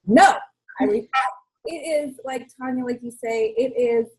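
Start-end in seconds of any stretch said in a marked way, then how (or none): 0.0-0.3 firm retorted no. Retold or imitated. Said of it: "And I'm like".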